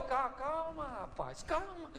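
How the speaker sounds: soft, soothing reassurance; calma tranquilizadora. Acted. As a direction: settle the nervous boy gently. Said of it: "Eliseu olhou e falou". (tranquilizando com voz suave)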